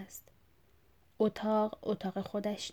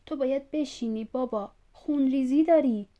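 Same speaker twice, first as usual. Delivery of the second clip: begging, rising to louder on خونریزی داری; pleading; 4 semitones higher, 5 dB louder than usual. Acted. Son begs bleeding father to sit down pleading. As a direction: urge him to sit, voice swelling.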